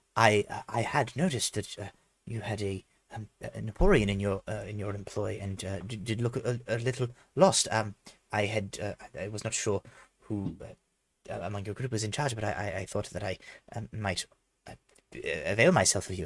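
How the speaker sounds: soft, fussy, nervous voice with stumbling speech. Narrating a game scene, speaking as a man who bows to the listener: nervous, finicky character voice. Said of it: "he seems very like finicky, like like nervous".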